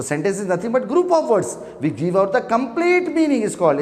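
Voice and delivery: slow dictation. Acted. Teacher to students, dictating a definition very slowly. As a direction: read out word by word, very slowly, for notes.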